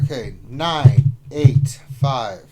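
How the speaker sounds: slow, loud radio operator read; military radio voice. Pretend. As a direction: call out the digits like a radio operator. Reading code like military radio.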